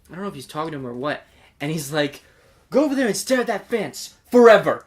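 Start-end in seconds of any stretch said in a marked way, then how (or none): 2.7-4.9 laughing mock quote. Mocking the annoying guy, laughing.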